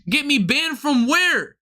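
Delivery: slow, drawn-out mock disbelief; incredulous comeback. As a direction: stretch the question out in disbelief.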